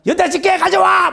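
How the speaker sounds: high, loud barking order; furious shout. Retold or imitated. Wife demanding tongs from husband, high loud shout. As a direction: bellow the command. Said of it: "막 이러고 막".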